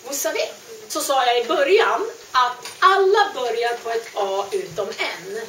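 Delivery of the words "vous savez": "Vous savez" with a sharp unvoiced s; plain s sound. Shown as a demonstration. Teacher shows the class the wrong s. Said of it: "utan tonande s".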